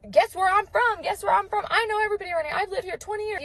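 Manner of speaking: high-pitched, lightly imitated New York accent. Older man interrupting the woman to joke, imitated New York accent. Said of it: "a really thick, what I thought was a New York accent".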